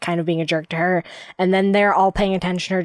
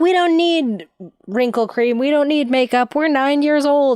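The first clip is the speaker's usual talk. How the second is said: mock full-on yelling, high-pitched; 8 semitones higher, 4 dB louder than usual. Retelling a cartoon sleepover scene, imitating Helga yelling. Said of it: "And she's, like, yelling".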